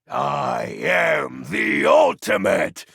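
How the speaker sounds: slow, booming self-declaration; hammed-up villain shout; villain proclamation. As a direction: roar out your own greatness.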